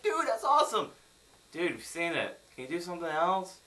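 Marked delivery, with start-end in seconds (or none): 0.0-0.9 high, loud fanboy-style gushing; excited cheer, pitched way up; mock excitement. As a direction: exclaim it as if thrilled. Acting out an excited reaction.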